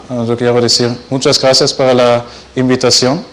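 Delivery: Spanish with a strong American accent; learner's Spanish in an American accent. Real, not acted. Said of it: "disculpe mi español".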